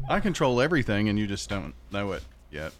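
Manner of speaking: low, hushed sci-fi narrator voice; ominous announcer voice. Pretend. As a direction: tease them like the eerie TV voice. Echoing the Outer Limits clip.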